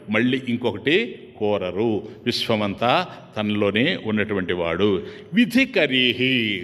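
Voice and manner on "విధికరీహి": slow drawn out. Shown as a demonstration. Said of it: "చూడు తమాషా".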